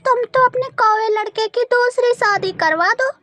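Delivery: annoyed neighbour. Acted. (नाराज़ पड़ोसन)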